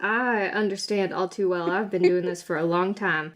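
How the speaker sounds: lightly voiced veteran guard; a hint of a tired lawman; weary law officer. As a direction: answer low, as one who has seen it all. Guard answers the plea.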